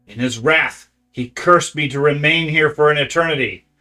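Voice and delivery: loud, hissing creature voice. Acted. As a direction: hiss out an ancient blind oracle. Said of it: "to speak out in a hissing voice".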